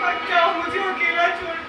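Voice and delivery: soft, broken plea after the screaming; drained, quiet plea. Acted. Teacher quietly begging the gone children to stay, defeated. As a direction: give up and whisper your last plea.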